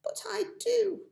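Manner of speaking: put-on high whispered defiance from a young girl; a small girl's defiant whisper. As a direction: breathe it out stubbornly.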